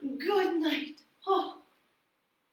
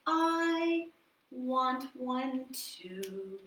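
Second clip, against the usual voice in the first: slow, soft sad wish; a husband's quiet longing; slow longing plea; 3 dB quieter, much slower than usual. Acted. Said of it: "And the man said".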